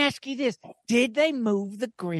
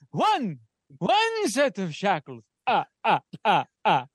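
Count von Count voice; 4 semitones lower than usual. Acted. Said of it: "Count-style counting with laugh".

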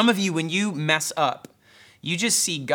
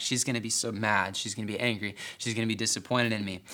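put-on quiet, anxious self-talk of a frightened kid; scared inner voice; 3 semitones lower, 6 dB quieter, faster than usual. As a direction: mutter it softly like a scared third-grader. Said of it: "trembling, so scared".

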